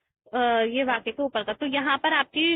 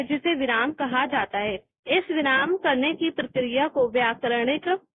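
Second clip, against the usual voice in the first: textbook reading. Real, not acted. Reads definition from textbook.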